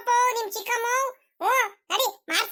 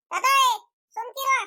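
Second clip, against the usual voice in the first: raised, higher-pitched protest; indignant hushing; 4 semitones higher, 4 dB louder, slower than usual. Acted. Grandson telling grandpa off, indignant hushing. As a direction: call out higher to shut grandpa up.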